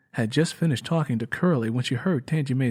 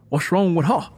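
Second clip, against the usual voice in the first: lightly voiced concerned man; 5 semitones higher, 5 dB louder than usual. A narrator's reading. Curly arriving on porch.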